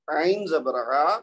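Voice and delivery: عا drawn out slowly with a throaty ain; slow spelled syllables. Shown as a demonstration. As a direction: sound out ain zabar aa. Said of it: "عین، با اور دال".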